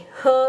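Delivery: "he" as a high, loud huh; correct Mandarin reading. Shown as a demonstration. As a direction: punch out "he" high with a schwa. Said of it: "Bukan he juga nih bacanya".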